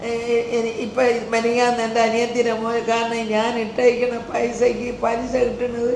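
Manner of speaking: real tearful voice, subdued and halting. Real, not acted. Grandmother explaining her small income on camera, tearful. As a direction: talk through real tears. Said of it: "കരയാതെ അമ്മൂമ്മ".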